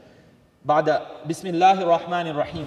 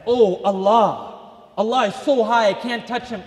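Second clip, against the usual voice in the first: distant awed voice; 5 semitones higher, 6 dB louder than usual. Retold or imitated. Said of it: "It's like".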